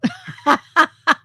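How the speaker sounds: a burst of real laughter; laughs. Real, not acted. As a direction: laugh out loud, amused. Laughing at own joke.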